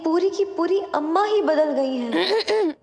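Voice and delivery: lightly voiced old woman covering a changed voice; disguised granny voice. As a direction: pretend granny owning the change. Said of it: "तेरी आवाज ये बदली बदली सी".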